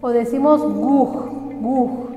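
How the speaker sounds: guj said twice with gu like a u; sound demo. Shown as a demonstration. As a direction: say guj with a soft u-like gu. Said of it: "suena como una U".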